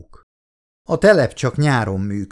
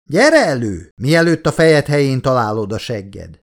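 mock a big man's booming bark; a hint of a booming tough guy; Verheiden's booming voice; 2 semitones higher, 3 dB louder than usual. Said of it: "utánozta Verheiden mély, zengő hangját".

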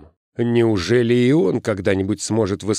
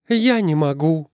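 put-on high, distressed girl's voice; near tears; 8 semitones higher than usual. A narrator's reading. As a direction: refuse on the brink of crying. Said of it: "ответила она и заплакала".

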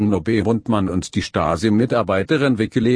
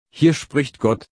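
thundering god voice; 5 semitones higher, slower than usual. Acted. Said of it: "donnerte es durch den Lautsprecher".

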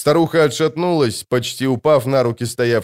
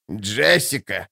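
ordinary delivery

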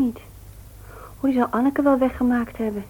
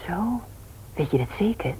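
whisper; 7 dB quieter than usual. Acted. Whispered doubt about the theft.

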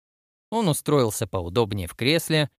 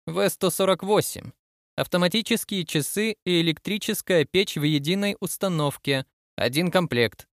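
lightly voiced admiral, pitched higher; inspecting admiral; 6 semitones higher than usual. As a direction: read out inventory items as an inspecting admiral. Admiral reads out inventory list.

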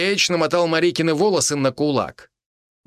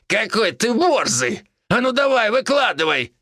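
mocking villain; 11 semitones higher than usual. Criminal mocking the major, high jeering taunt. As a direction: goad him, pitched high.

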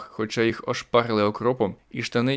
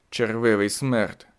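slow, understated growl; lightly voiced threat; mild snarl; slower than usual. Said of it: "гаркнув він".

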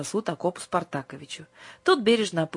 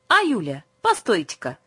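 louder call with a higher start; calling again; 4 semitones higher, 5 dB louder than usual. A narrator's reading. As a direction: call her back, more urgently. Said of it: "позвал он". (снова громко окликнуть)

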